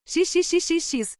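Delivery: high hissing whispered syllables; eerie whispering. A narrator's reading. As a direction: whisper it like an incantation. Jesse's strange whispered words.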